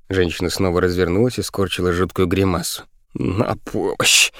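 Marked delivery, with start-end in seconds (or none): 3.1-4.3 drawn-out, restrained wail for help; slow, stagey howl for rescue; cry for help. A narrator's reading. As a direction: stretch out a panicked plea without shouting. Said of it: "завопил Тюлип".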